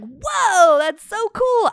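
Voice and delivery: high, loud starstruck whoa; light up like a kid on a film set; playful mock delight; imitated excitement. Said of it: "I'd be like".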